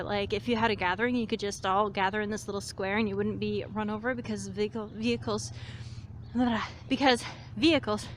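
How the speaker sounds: breathless from walking, gasping for air; panting between words; out of breath. Real, not acted. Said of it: "I'm a little out of breath from walking".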